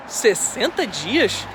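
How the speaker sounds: slow, doubting question rising at the end; a customs officer surprised at his answer, a slow incredulous echo. Retold or imitated. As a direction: repeat it slowly in disbelief. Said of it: "Aí ele olhou assim".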